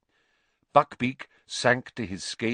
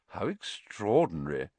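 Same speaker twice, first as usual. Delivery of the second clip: amused; 4 dB quieter than usual. Acted. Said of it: "a note of amusement in his voice".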